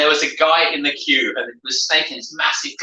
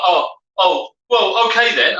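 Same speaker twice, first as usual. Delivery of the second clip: raised, mock-bewildered backing down; mock bewilderment; 3 semitones higher, slower than usual. Queue-jumper to the men who stopped him, mock bewilderment. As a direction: imitate a caught-out queue-jumper feigning surprise. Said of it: "he kept up this sort of bewildered".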